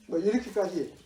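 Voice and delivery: ordinary talk, nothing marked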